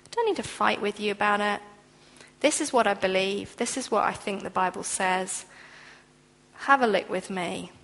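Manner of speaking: a believer calmly declining a fight; quiet assurance. Pretend. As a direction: settle it gently, no argument. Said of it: "just a quiet assurance".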